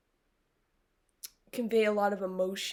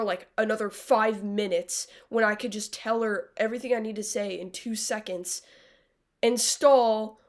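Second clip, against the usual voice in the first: mocking Max; 4 dB louder than usual. Mocking Max stalling her exit on the show. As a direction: mimic a character dragging out her exit. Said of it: "she would not have just been like".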